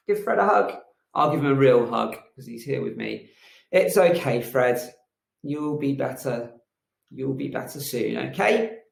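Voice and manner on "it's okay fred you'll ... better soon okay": comforting. Acted. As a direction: soothe the frog gently. Comforting hurt frog.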